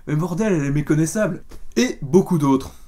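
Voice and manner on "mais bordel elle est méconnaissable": sudden recognition. Retold or imitated. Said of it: "j'étais".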